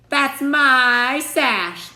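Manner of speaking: very slow, high, loud yell; shouting. A narrator's reading. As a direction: yell it at her sister. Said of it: "shouted Drizella".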